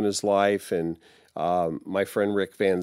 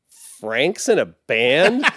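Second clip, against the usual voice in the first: slow, high, laughing disbelief; stunned disbelief; 5 semitones higher, 7 dB louder, slower than usual. Retold or imitated. First girlfriend hearing Frank is in a band, laughing disbelief. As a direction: let it dawn on her through a laugh. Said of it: "And she's like".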